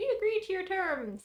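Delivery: shrill, very high-pitched, squeaky rat voice. Voicing a rat agreeing to terms in a very high squeaky voice. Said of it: "in the highest pitched voice you can possibly imagine".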